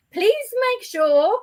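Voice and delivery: high, drawn-out pleading advice; retold warning. Friend warning her to bring a hat, mock-earnest. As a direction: caution them with exaggerated care.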